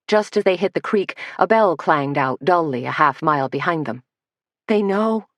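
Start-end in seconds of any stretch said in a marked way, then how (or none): 4.7-5.3 crying out. Acted. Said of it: "cried Lydia".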